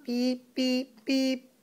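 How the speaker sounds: light robot beeping. Shown as a demonstration. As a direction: beep like a little robot. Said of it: "that's what the robot says".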